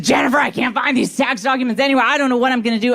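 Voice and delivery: hooting and hollering. Retold or imitated. Mother-in-law on the phone about lost tax documents, panicked. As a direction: rush it out in a fluster. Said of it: "hooting and hollering".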